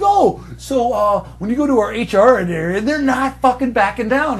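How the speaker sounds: high, nerdy mock employee. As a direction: squeak like a polite nerd.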